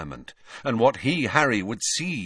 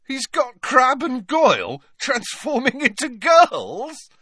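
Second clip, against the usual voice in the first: high, loud, incredulous mirth; loud, amused disbelief; guffawing; 6 dB louder than usual. A narrator's reading. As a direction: blurt it slowly as if about to guffaw. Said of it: "guffawed Ron".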